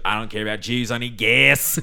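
weird, halfway put-on Australian accent. Retelling a movie character's answer, in that weird halfway Australian accent. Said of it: "That weird halfway Australian accent that he had in that movie".

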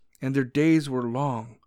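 ordinary delivery

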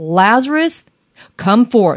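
acted, commanding, triumphant, authoritative call. Preacher describing Jesus's voice acts it out: Jesus's authoritative voice. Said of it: "that victorious, authoritative voice saying".

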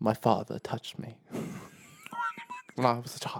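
showy, sing-song put-on voice, pitch swinging all over. Imitating a public figure the speakers were just discussing: Milo Yiannopoulos impression. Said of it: "Isn't that what he sounds like?".

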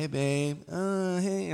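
slow gentle phone voice. Giving relationship advice, mimicking how daters talk: putting on a gentle phone voice. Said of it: "Had like phone voice".

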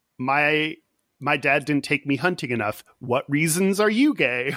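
ordinary talk

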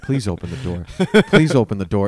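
imitated whispering. Retelling pleading to oneself at a door: retelling a whisper. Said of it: "I'm whispering to myself".

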